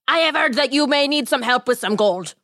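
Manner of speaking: a lightly voiced odd little man; a hint of a sly little stranger; strange tiny man. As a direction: greet them as a mysterious little man. Tiny man's voice.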